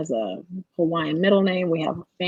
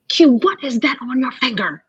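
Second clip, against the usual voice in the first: high, loud mock-shocked call; retold astonished question; 7 semitones higher, 6 dB louder than usual. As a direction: call it across the studio, astonished. Colleague spots ring across studio.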